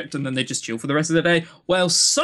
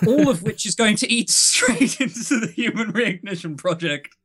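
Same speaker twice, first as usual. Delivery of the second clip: mock outrage; 5 semitones higher than usual. Joking mock alarm, breaking into laughter.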